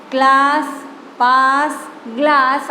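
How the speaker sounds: ક્લાસ, પાસ, ગ્લાસ one by one, matching -aas endings; rhyming word demo. Shown as a demonstration. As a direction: model the rhyme, pausing between ક્લાસ, પાસ, ગ્લાસ. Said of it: "આનો ઉચ્ચાર સરખી રીતે થાય છે". (ક્લાસ, પાસ, ગ્લાસનો છૂટો, સરખો ઉચ્ચાર)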